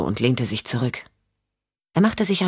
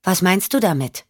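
put-on slightly higher girlish echo; echoing child; 5 semitones higher than usual. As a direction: parrot the question back in a child's voice. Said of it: "Sie lächelte und echote". (kindliches Echo, etwas höher)

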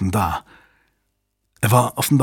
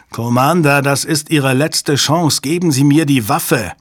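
higher-pitched, pressing hostage taker; agitated ultimatum; urgent demand; 3 semitones higher, 3 dB louder than usual. Acted. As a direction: demand the gun with rising desperation.

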